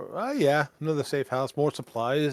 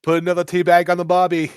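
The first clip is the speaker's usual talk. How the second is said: louder hammed-up Aussie barbecue voice; mock Australian accent; 3 semitones higher, 7 dB louder, faster than usual. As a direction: play the cliché Australian, overdone. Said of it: "he sounds Australian".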